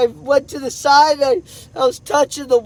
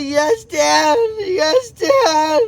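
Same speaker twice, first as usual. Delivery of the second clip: tearful child's reply, retold through the teller's tears; imitated crying child; much slower than usual. Son answering dad who said stop crying, tearful. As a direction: echo a crying child, voice lifting. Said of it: "Stop crying".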